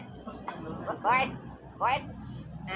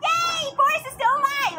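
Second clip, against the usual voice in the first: high, excited cheering; overjoyed cheer; 8 semitones higher than usual. Real, not acted. Player celebrates that Boris is still alive, overjoyed. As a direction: celebrate with the voice shooting up.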